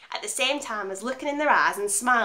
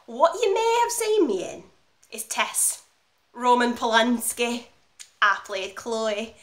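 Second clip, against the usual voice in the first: proud announcement; 4 dB louder, slower than usual. Acted. Actress telling the director her film credit, proudly. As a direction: announce your film credit with weighty pauses.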